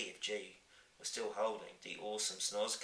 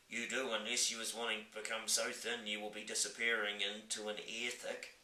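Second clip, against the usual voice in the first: giant voice. Acted. Giant warns.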